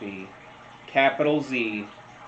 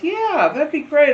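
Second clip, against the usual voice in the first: much higher, bright eager customer voice; mother's chirpy reply; 13 semitones higher, 6 dB louder than usual. Retold or imitated. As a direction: squeak out the yes like the eager mom. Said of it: "She goes".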